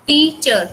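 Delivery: टीचर with strong टी, lighter चर; primary stress on first syllable. Shown as a demonstration. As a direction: put the main stress on टी in टीचर. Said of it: "टी primary है".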